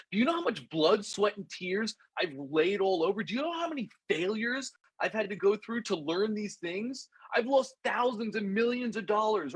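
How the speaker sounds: worn-out speaker pours out his struggles to the crowd; passionate rant. Retold or imitated. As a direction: hammer each question home with frustration. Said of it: "Russell just loses it".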